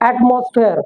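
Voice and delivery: "एटमॉस्फेयर" with full AT-MOS-FAIR vowels; spelling-based misreading. Shown as a demonstration. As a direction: read "एटमॉस्फेयर" as spelt, ending in -fair. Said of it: "इसे हम कहते हैं". ("एटमॉस्फेयर" लिखे अनुसार पूरा उच्चारण)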